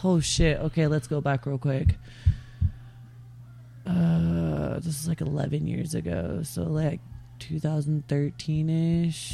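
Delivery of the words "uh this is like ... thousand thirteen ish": stoned, slow and hazy. Real, not acted. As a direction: sound stoned, losing the thread. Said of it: "Sorry, I'm stoned".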